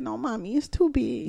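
soft retold little-boy protest; quiet, mild imitation of a toddler; small child. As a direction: lightly voice a timid child to Mommy. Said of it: "he said".

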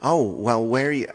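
mocking high, loud TV character voice; Herman imitation. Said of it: "Herman's voice is just like this".

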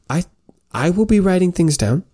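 prim scholar voice. Acted. Sympathy lecturing squire.

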